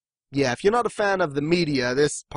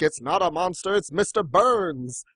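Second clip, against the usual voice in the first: lightly acted cartoon explainer, drawn-out ending; mock reassurance; 3 semitones higher than usual. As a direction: gently set the panicked mob straight, half-acted. Acting out the calm corrector.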